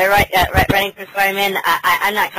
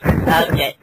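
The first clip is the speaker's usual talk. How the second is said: disguised high voice; 3 semitones lower than usual. Real, not acted.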